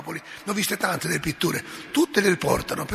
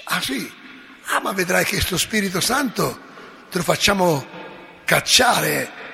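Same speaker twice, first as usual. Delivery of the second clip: menacing tone; 3 semitones higher than usual. Acted. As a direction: menace her, rising to a near shout. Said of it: "con tono minaccioso". (Pascasio minaccia Lucia, tono minaccioso crescente)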